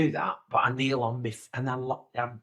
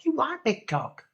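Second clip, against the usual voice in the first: mock high voice; 12 semitones higher than usual. Mock thought about the contestant.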